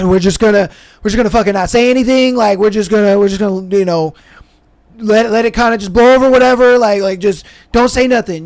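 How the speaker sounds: insistent. Retold or imitated. Friend pushing the others to stay silent, insistent.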